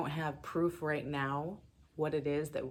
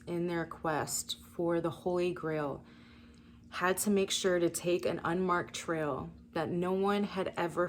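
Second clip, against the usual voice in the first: solemn card reading. Acted. Reads oracle card text aloud.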